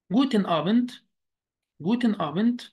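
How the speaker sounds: جوتن آبند said twice as German Guten Abend; German greeting demo. Shown as a demonstration. Teacher modeling the evening greeting, careful German. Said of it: "معنى مساء الخير".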